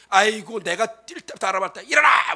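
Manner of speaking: a hint of a harsh scolding mother; mock scolding mother. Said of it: "엄마가 애가 팍 꼬꾸라져".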